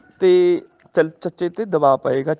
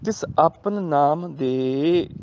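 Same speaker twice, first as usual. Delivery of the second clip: slow, measured scripture recital; gurbani recitation; much slower than usual. Shown as a demonstration. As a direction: draw each word out reverently. Recites gurbani line slowly. (ਹੌਲੀ ਪਾਠ ਦੀ ਲੈਅ)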